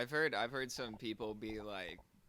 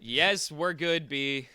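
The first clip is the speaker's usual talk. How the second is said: loud, emphatic mock New York reply; loud imitated New Yorker on the subway; mock New York tough; 4 semitones higher, 13 dB louder, slower than usual. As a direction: bark it out like a Brooklyn guy.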